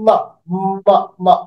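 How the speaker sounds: slow মা, মা, lips pressed, humming through the nose; nasal humming ma; drawn-out ma. Shown as a demonstration. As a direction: stretch the মা so the nose hums. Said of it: "like a member".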